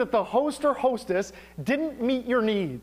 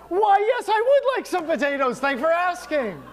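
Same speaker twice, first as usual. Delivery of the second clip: eager yes; 6 semitones higher than usual. Retold or imitated. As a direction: pounce on the offer gladly. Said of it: "And I'm like".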